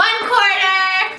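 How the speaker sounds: proud, slow shouted answer; excited. Real, not acted. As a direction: call it out like a quiz winner. Proud answer to math question.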